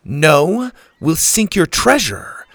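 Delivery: high, loud defiant yell; angry girl shouting back. A narrator's reading. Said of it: "Susie yelled".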